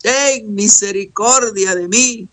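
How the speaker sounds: acted plea of a blind man; crying out for mercy. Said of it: "estaba gritando, estaba clamando".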